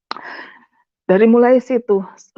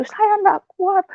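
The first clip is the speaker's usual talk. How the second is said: very high, slow retold wail; pleading lament; 11 semitones higher, slower than usual. Wife telling God she cannot bear it, high lament. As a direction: plead helplessly, dragging the words out high. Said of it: "saya hanya bisa menangis".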